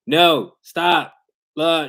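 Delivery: sharp, high, loud "No, stop" at the dog; mock scolding. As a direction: bark a quick command at a dog pulling away. Owner scolding the reactive dog.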